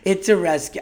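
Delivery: over-the-top cashier. Retold or imitated. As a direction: lightly imitate the gushing cat owner. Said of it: "this girl was so over the top".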